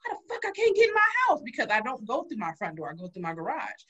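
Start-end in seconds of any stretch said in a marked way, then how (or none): 0.1-1.4 retold outburst. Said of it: "I was like".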